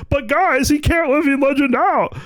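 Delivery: a pleading, fed-up New Zealander intern voice, way up high; exasperated New Zealander accent. Retold or imitated. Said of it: "exasperated New Zealander accent".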